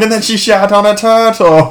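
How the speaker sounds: hammed-up English accent, drawn out; mock British accent. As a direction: imitate comic British gibberish. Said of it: "reminds me of the Austin Powers thing".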